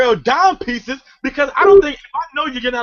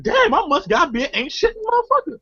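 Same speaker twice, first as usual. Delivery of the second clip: raised mock lament; 8 semitones higher than usual. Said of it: "I'm like".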